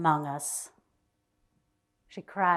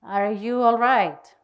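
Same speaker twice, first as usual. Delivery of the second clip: tremulous; 3 semitones higher, 6 dB louder, slower than usual. Acted. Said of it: "asked with tremulous voice".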